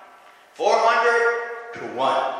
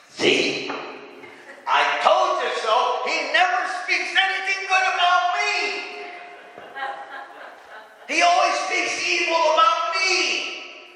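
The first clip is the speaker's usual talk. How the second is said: aggrieved King Ahab; 9 semitones higher than usual. Acted. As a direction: act out an indignant king, voice climbing high. Acted King Ahab complaining about prophet.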